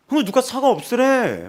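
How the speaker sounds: loud high shouting; shouting back. Retold or imitated. Woman on the bus shouting at passengers about freedom. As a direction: yell it at the whole bus.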